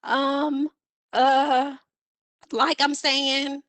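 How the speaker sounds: drawn-out hesitant "um" then "uh"; vocal fillers. Shown as a demonstration. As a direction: fill the pause with "um", "uh". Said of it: "a vocal filler is when you say things like".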